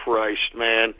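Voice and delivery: exasperated mutter. Real, not acted. Host muttering at troll names, exasperated whisper. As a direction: sigh it out under your breath.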